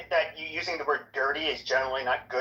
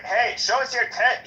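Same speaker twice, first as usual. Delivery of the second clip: higher, drawn-out imitation of a funny talker; fire captain's funny voice; 7 semitones higher, 3 dB louder, slower than usual. Guy calls from the car at a light, funny voice. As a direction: drag it out in his funny voice. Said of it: "so I'm doing his voice".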